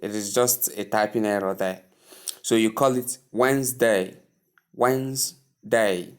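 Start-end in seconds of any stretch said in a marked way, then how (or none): 3.3-6.1 slow, careful WENS-day, silent first d in Wednesday; two-syllable Wednesday. Shown as a demonstration. Teacher modelling Wednesday for learners, in two careful syllables. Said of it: "There are two syllables there".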